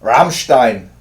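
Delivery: The band's name yelled loud with a German rolled ending, falling; hammed-up metal-band shout of the band's name; rock-star band-name shout. Shown as a demonstration. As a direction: bellow the band's name like announcing the band on stage. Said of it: "That's my Rammstein".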